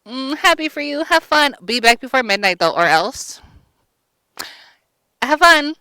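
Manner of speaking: high, loud, sing-song send-off; breezy fairy godmother. Retold or imitated. Fairy godmother sending Cinderella off, high sing-song. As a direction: chirp it out like a cheerful fairy godmother. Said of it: "So she's like".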